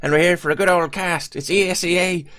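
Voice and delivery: high, hammed-up stereotypical Irish broadcaster; stereotypical Irish accent. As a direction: open the cast like a cartoon Irishman, pitched well up. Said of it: "Very stereotypical".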